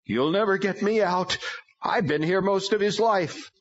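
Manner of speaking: high, strange demon voice, defiant. A narrator's reading. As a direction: speak as a demon through the boy, high and taunting. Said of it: "The third demon spoke right up".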